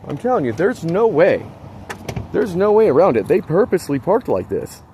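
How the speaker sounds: high, emphatic protest; exasperated insistence. Real, not acted. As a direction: insist on it, worked up and indignant. Insisting, upset about the bad parking.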